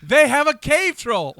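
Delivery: drawn-out theatrical yell; mock movie shout. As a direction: call out the film line big and hammy. Shouted film quote.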